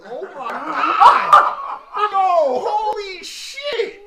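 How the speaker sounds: slow, high laughing disbelief; laughing shock. Real, not acted. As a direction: crack up in shock. Sudden realization, laughing shock.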